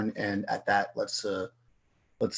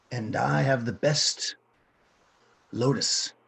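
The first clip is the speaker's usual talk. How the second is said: street dealer pitching his goods, halting at first; a hint of a hawker, with dramatic pauses; lightly voiced lotus seller. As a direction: make a halting sales pitch in character.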